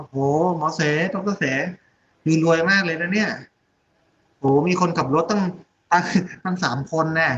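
retold wonder, lightly played; mildly acted amazement. Visiting Korean doctor marvelling at three drivers, mock amazement. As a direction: imitate an impressed visitor, slightly exaggerated.

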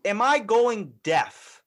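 high and loud, alarmed disbelief; startled. Retold or imitated. Straining to hear a whispering friend, loud alarmed question. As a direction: shout it like you can't hear a thing. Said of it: "So you're like".

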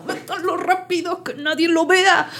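high, drawn-out urgent hush; panicked mother. Retold or imitated. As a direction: imitate a mum frantic to avoid being seen. Imitating mother urgently hiding drunk.

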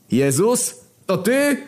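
high, loud yell. Acted. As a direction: shout it out in alarm. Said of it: "wydarł się papież". (wydzierając się wysoko)

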